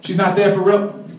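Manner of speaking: ordinary talk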